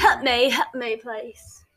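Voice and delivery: slow British-accented plea; lightly attempted British accent. Shown as a demonstration. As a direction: try a British accent, drawn out. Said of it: "Can you do a British accent".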